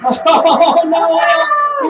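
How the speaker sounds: loud laughter through the words; laughing. Real, not acted. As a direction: laugh out loud while talking. Game ends, host laughs loudly.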